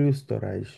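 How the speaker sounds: ওস্তরাইশ with the first vowel long and lips rounded; stretched rounded vowel. Shown as a demonstration. Teacher correcting a learner, vowel stretched and rounded. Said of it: "টেনে এবং আরেকটু গোল করে বলতে হবে".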